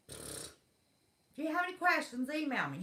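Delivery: mocking the repeated line. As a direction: drag the stock phrase out to mock it. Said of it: "Every blasted day for how long now?".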